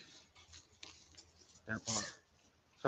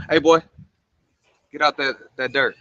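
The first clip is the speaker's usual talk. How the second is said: calling out; 3 semitones higher, 4 dB louder than usual. Real, not acted. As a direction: call across the yard. Calling out to son outside.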